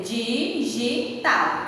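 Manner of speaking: "Digital" slowly counted out as di, gi, tal; syllable by syllable. Shown as a demonstration. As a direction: separate each syllable of "Digital". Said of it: "separar as sílabas". ("Digital" pausado, sílaba por sílaba)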